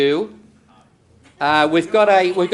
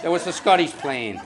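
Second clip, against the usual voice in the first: laughing echo. Real, not acted. Punchline echoed with a laugh.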